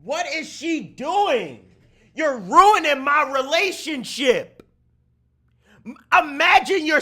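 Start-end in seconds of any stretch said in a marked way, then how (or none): 0.0-1.7 stunned disbelief. Real, not acted. Stunned at her choice.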